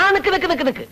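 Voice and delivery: high, repeated urgent stop; urgent halting. Acted. Gatekeeper stops visitor going upstairs, urgent halting. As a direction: halt him, pitch jumping up.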